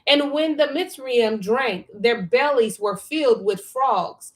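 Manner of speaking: measured, emphatic reading aloud; scripture reading. A narrator's reading. Reading scripture to a study partner, measured read-aloud. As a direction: read the verse out slowly and firmly.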